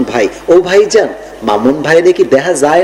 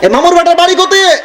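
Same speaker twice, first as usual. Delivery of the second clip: higher, brisk Rajshahi dialect imitation; 11 semitones higher than usual. Preacher imitates how people talk in Rajshahi dialect. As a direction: mimic a rough Rajshahi local. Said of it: "রাজশাহীর ভাষা কেমন জানেন?".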